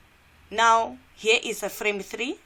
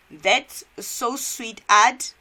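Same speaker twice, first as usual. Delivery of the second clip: flattered jogger; 4 semitones higher, 8 dB louder, much slower than usual. Acted.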